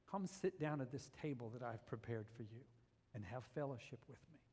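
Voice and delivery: Jesus gently inviting Peter to breakfast; gentle invitation. Acted. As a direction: invite him in softly.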